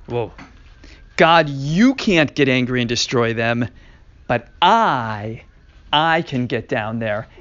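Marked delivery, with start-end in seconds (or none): 1.2-7.3 Moshe arguing. Acted. Teacher voicing Moshe to God.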